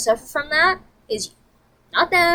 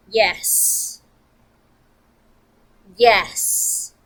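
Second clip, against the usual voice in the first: a lower, blunt mock yes; imitating Shelby; 3 semitones lower than usual. Shelby admitting she's smoking weed, imitated deadpan yes. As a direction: play the friend owning it deadpan. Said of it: "I'm gonna reenact it for you".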